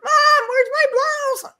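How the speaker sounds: high, slow call to another floor; yelling across the room. Retold or imitated. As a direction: call up loud for mom. Calling to mom downstairs.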